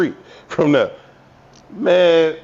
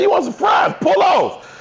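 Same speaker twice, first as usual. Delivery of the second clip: a high shouted comeback ending in a command; sarcastic retort; slower than usual. Retold or imitated. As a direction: yell it back sarcastically, then order her to drive.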